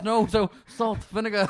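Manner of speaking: high imitated Chinese accent. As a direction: mimic a thick Chinese accent. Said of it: "very thick Chinese accent".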